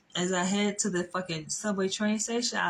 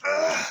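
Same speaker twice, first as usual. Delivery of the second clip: higher-pitched grunt of effort, acting her out; imitated angry grunt; 8 semitones higher, 4 dB louder than usual. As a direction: mimic her exasperated "ugh". Imitating woman choking her man.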